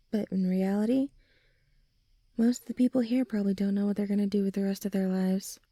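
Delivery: usual speaking voice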